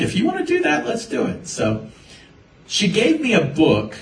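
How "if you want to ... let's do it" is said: imitating parents. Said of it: "my parents were like".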